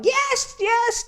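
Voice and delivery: a blushing face lighting up, squeaked high; flashing light yes. Retold or imitated. Mock high yes of a flashing light blushing at school. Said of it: "your head was a flashing light going".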